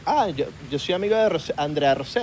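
name-dropping Valencia bro; Valencia, Venezuela accent. Acted. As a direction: parody a well-connected Valencia kid. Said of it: "Unos de Valencia". (acento valenciano venezolano)

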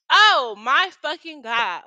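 slow, loud disbelief; exasperated. Real, not acted. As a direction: drag it out, fed up. Exasperated exclamation.

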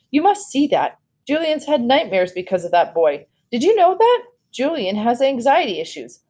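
high, insistent protest; agitated mother. A narrator's reading. Mom pressing her son's case to the doctor, agitated.

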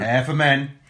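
punchy mock ad announcer; advert slogan voice. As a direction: sell it like a TV ad.

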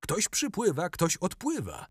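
high, loud joyful shout from the ship; gleeful yell across the harbour; laughing shout. A narrator's reading. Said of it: "śmieje się i krzyczy do Gertruda".

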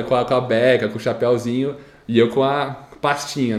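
ordinary delivery

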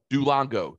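Duolingo said as "doo-LONG-go"; mispronounced name. Shown as a demonstration. Trying out the app's name, Duolingo as "doo-long-go".

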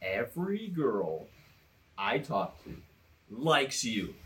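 very slow, low retold complaint; slowly building complaint. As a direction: drag it out in halting chunks. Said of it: "his voice is, is, is slowly picking up".

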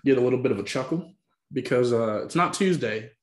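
hammed-up Southern accent; put-on Southern accent. Host promoting the show, put-on Southern accent. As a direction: keep up a playful Southern accent. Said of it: "the commitment to the accent".

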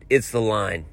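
low, soft, defeated mimicry; imitating a deflated man. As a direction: report it back as if beaten. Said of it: "like, defeated".

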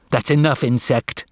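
understated big-brother snap; snapped. Acted. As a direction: cut him off with mild contempt. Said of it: "snapped Julius".

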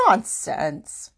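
mild motherly scolding; understated telling-off. Acted. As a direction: dismiss it firmly. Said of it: "Their mother scolded".

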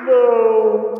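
shouted name like a scorer; explosive goal commentary. Acted. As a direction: belt the name out.

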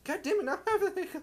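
high, fast laughing complaint. Real, not acted. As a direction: laugh it out in disbelief. Caught the hiccups, laughing.

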